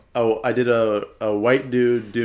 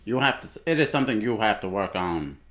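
attempted elder-statesman impression; a hint of a South African leader's voice; Nelson Mandela; 3 semitones lower than usual. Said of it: "That's Morgan Freeman doing Nelson Mandela".

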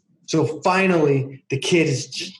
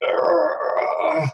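put-on high, whiny kid near tears; a son about to cry, begging his mom, mock crying; imitating a crying kid; 10 semitones higher, much slower than usual. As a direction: whimper it like a four-year-old giving up. Crying child at the zipper.

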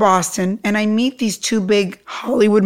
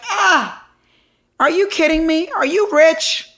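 mock incredulity; 7 semitones higher, slower than usual. Moguls scoff at her refusal.

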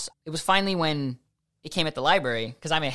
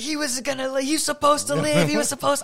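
freaking out; 10 semitones higher than usual. Retold or imitated. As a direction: blurt it out in rising alarm, half disbelieving. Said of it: "I was just freaking out".

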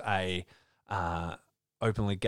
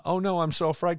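higher, louder put-on scaredy voice; mock fear; 9 semitones higher, 4 dB louder, faster than usual. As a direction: play-act being so afraid. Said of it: "not shocked in, like, a".

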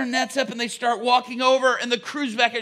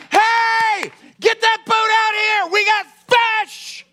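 loud, high excited hail; calling out to shore; 10 semitones higher, 6 dB louder, slower than usual. Acted. Peter hailing his other boat ashore, loud excited call.

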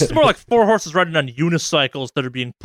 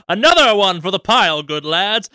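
gruff tinny action figure; 5 semitones higher, 4 dB louder than usual. Acted. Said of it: "being like".

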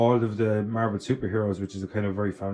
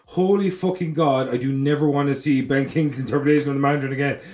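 exasperated rant; 4 semitones higher, 5 dB louder than usual. Retold or imitated. Ranting about the Mandarin, loud, exasperated. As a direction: blast it like a fed-up fan. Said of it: "And I was like".

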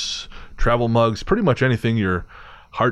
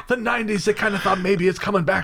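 radio announcer voice; 10 semitones higher than usual. Pretend. Putting on a radio host intonation.

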